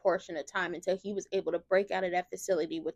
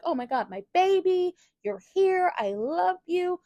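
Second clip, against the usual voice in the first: higher, louder joyful gush; overjoyed mother; 10 semitones higher, 4 dB louder, slower than usual. Retold or imitated. Lulu greeting her son Rocco, high and overjoyed. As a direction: greet your long-lost son with tearful joy. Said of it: "She's like".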